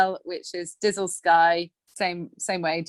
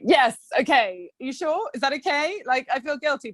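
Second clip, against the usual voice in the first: high-pitched, tentative checking; guilty hesitation; 7 semitones higher than usual. Retold or imitated. Wife checks with husband before leaving for a walk, guilty hesitation. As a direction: imitate yourself guiltily asking permission.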